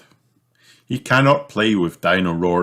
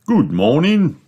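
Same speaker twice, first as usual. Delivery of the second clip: bright, higher salesman greeting; beaming shopkeeper; 10 semitones higher, 5 dB louder than usual. A narrator's reading. Mister Fox greeting the family in his shop, beaming. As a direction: welcome the customers with a grin. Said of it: "beams Mister Fox".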